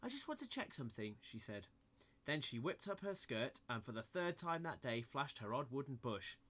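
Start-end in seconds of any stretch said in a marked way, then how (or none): 0.0-1.2 put-on a touch of high girlish voice; sweet girl voice. A narrator's reading.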